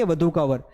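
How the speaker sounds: "वधु का वर" said low as a memory aid; memory phrase. Shown as a demonstration. Teacher gives students a rhyme to remember. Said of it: "कैसे बोलेंगे?".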